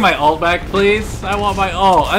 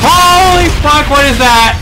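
startled shock; 3 semitones higher than usual. Real, not acted. Startled by something in game.

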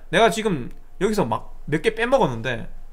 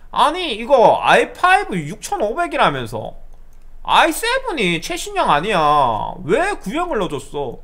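loud, high, drawn-out complaint; higher and slower, pushing the accusation; irate customer; 6 semitones higher, 4 dB louder, slower than usual. Retold or imitated. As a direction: imitate an indignant caller demanding an explanation.

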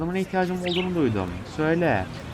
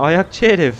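mock scolding; 6 dB louder, slower than usual. Real, not acted. Scolding bird at his foot.

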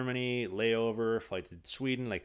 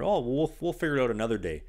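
mock coach; 3 semitones higher, 5 dB louder than usual. Coach brushing off player.

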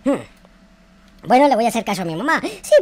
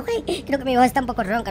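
usual speaking voice

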